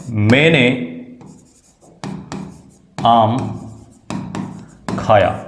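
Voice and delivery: मैंने आम खाया said word by word with long pauses; slow dictation. Shown as a demonstration. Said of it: "जैसे मैं यहाँ पे लिखता हूँ". (धीरे-धीरे, एक-एक शब्द रुककर बोलना)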